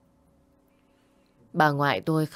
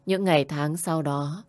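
usual speaking voice

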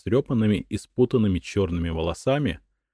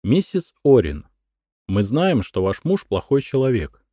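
ingratiating; 5 semitones higher, 4 dB louder than usual. A narrator's reading. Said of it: "вкратчиво произнёс он".

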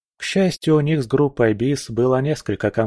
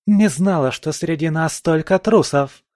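higher, contemptuous indignant cry; scornful outrage; 7 semitones higher than usual. A narrator's reading. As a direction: spit out the contempt. Valkyrie scorns deserters. (презрительное возмущение)

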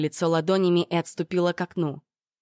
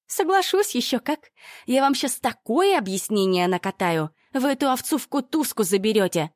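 gloating Olga; 6 semitones higher than usual. A narrator's reading. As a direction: relish every word of revenge. Ольга злорадствует. (злорадный высокий голос)

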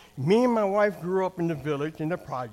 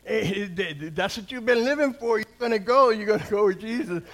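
blunt, louder, rising in pitch; blunt son; 4 semitones higher, 4 dB louder than usual. Retold or imitated. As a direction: push it bluntly, louder and higher, imitating the son. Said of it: "he's kinda blunt to say".

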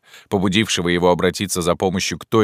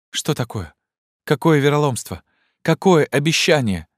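much higher, rising alarm; questions tumbling out in horror, pitched up; terrified exclaim; 10 semitones higher, 3 dB louder than usual. A narrator's reading. Maria, horrified, demands answers, high frightened questions. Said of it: "воскликнула Мария в ужасе".

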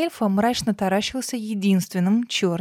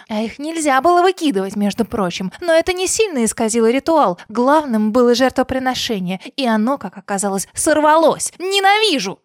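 screaming fury, much higher and louder; enraged boss roar; 4 semitones higher, 6 dB louder than usual. Acted. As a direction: roar out the hate. Villain's rage peak.

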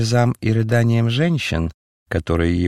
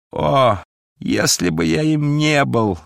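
anguished cry; 7 semitones higher than usual. A narrator's reading. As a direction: cry it out in despair. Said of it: "закричал несчастный". (горестный крик)

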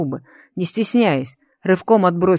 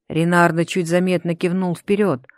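ordinary delivery

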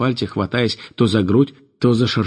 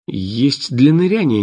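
puzzled; 3 semitones higher, slower than usual. Acted. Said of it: "непонимающе ответила".

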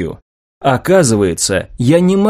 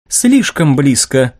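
slow, doubtful remark; 3 semitones higher, slower than usual. Acted. Maria judging the inventor's proposed project, doubtful. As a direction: weigh it with mild doubt. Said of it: "с сомнением заметила Мария".

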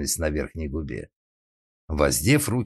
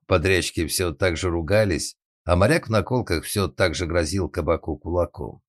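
ordinary delivery, nothing marked

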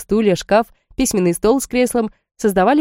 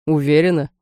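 ironic; 3 semitones lower than usual. Acted. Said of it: "Ироничным тоном поинтересовался демон".

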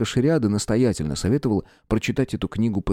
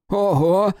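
high, louder exclamation; amazed gasp; 10 semitones higher, 3 dB louder than usual. Acted. Friend seeing the bruises vanish, amazed. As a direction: breathe out in delight. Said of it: "выдохнул Рай".

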